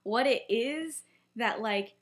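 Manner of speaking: mildly angry retold question, slow and deliberate; measured, lightly acted exasperation; getting angry. Friend pressing Lily about what Snape hid, getting angry. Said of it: "he's getting angry".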